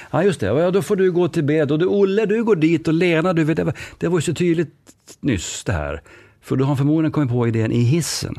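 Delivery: scatterbrained boss directing staff; hasty boss. Retold or imitated. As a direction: improvise the plan on the spot. Boss improvising orders in story.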